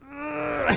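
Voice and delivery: high mock wail of sobbing; imitated breakdown. Imitating Barry losing it into his hands, mock crying. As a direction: fake a high, muffled bawl. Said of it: "he's just losing it into his hands".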